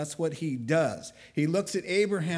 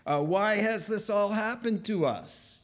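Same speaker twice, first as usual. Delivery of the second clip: complaining, slightly raised pitch; a little attitude; 4 semitones higher than usual. Acted. Gideon questions why this happened, with attitude. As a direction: challenge it with a touch of attitude. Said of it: "Mister Gideon gets a little attitude".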